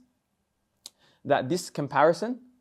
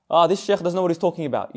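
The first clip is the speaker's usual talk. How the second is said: dismissive sneer; 3 semitones higher, 3 dB louder than usual. Retold or imitated. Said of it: "when people talk like that".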